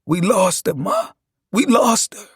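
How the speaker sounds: anguished acted sob; sobbing. A narrator's reading. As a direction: cry out the news to your mother. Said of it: "I sobbed like I never had before".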